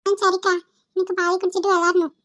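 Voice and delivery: put-on a small boy happily agreeing; cheerful child.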